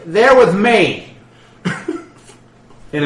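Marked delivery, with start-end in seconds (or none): 0.1-1.1 calm boss voice, a touch higher and louder, slow; dwarf boss. Acted. Crime boss dwarf vouching for the surrounded party, slow. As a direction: claim them with easy authority. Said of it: "and he says".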